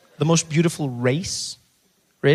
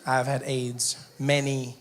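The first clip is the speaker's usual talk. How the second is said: mock solemn; 4 semitones lower, 5 dB quieter, slower than usual. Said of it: "why not have some fun".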